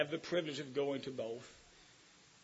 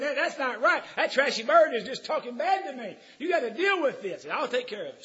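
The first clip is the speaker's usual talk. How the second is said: a touch of hammed-up outrage, laughing through it; lightly voiced indignant customer; mock irate customer; 8 semitones higher, 7 dB louder than usual. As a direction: customer complains to the pet store owner, mock irate. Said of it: "the guy just got irate and said".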